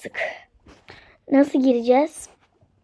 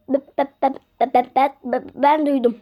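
scared stutter. Pretend. Scared answer.

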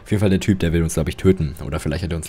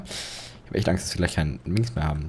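scared whisper; 3 semitones lower, 8 dB quieter than usual. Real, not acted. Gamer confessing fear to viewers, whispering.

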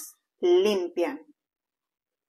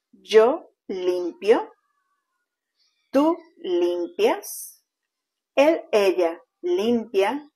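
slow teaching demo. Shown as a demonstration. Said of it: "je fais la conjugación de trois verbes".

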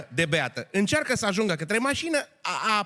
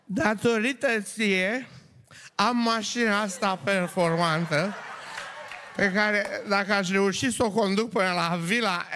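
put-on drunk woman's toast; slower than usual. Drunk woman talks to her crotch.

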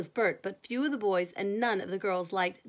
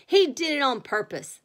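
loud, higher-pitched accusation; indignant yell, voice raised; angry shout; 5 semitones higher, 7 dB louder than usual. A narrator's reading. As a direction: shout it out as the soaked bully. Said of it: "shouted Danny".

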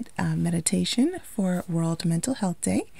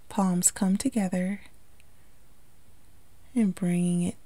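calm meditation delivery with long pauses; unhurried, lightly hushed guiding into relaxation; guided meditation; 5 dB quieter than usual. Acted. Yoga instructor guiding listeners to relax the body, calm meditation voice.

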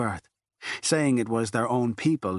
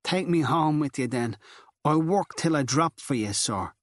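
desperate pleading; 5 semitones higher than usual. Acted. Girl pleads to go home with him.

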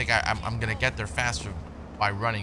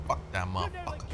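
low, quiet grumbled curse; low grumble; 5 semitones lower, 7 dB quieter than usual. Real, not acted. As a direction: grumble it low and soft to yourself. First take, muttered before squeaky repeat.

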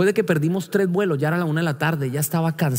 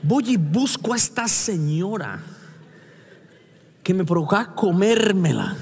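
ordinary talk, nothing marked

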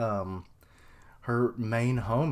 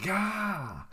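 mock pain scream; 9 semitones higher than usual. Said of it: "Just screaming in pain".

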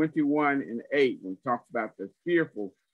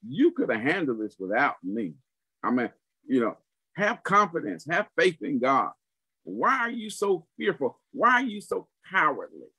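rebuking; 3 semitones higher than usual. Retold or imitated. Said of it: "He's rebuking them".

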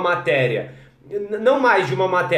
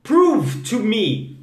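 Prove to me said very slowly, each word apart; slow model phrase; 4 semitones higher, much slower than usual. Shown as a demonstration. Teacher models a phrase for the class: very slow and careful. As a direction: spell out Prove to me slowly for learners. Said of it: "seria assim, ó".

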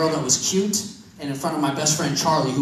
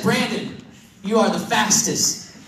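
slower, with a pause before you; slow retake; slower than usual. Retold or imitated. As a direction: say it again, slowly and deliberately. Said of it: "now let me try it again".

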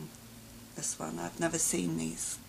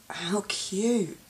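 gasp then whisper. Real, not acted. Finding a new gift, gasp then awed whisper. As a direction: gasp and coo it under your breath. Unboxing gifts, hushed.

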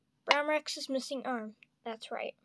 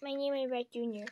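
put-on baby dinosaur voice; 2 semitones higher than usual. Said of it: "if you can't understand what he's saying".

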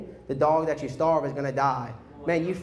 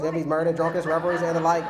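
laughing through list; faster than usual. Real, not acted. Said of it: "Y'all thought I couldn't get faster".

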